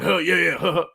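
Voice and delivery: dopey snickering like a cartoon teen; Beavis and Butthead laugh. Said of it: "It's like Beavis and Butthead".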